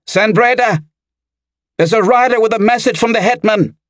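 put-on high, strained teenage boy's shout; urgent calling out. A narrator's reading. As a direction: call the news through a closed door. Boy pounds on door with urgent news.

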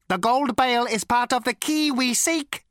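ancient robot with a cultured rasp; cold, sleek machine voice; cold lifeless robot. A narrator's reading. Robot's character voice.

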